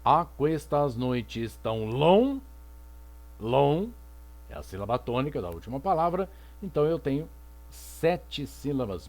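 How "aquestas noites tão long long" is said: "Aquestas noites tão long" spoken slowly, syllable by syllable, stopping on "long"; syllables of "Aquestas noites tão long" counted aloud slowly; counting syllables. Shown as a demonstration. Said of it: "Melhor fazer na mão".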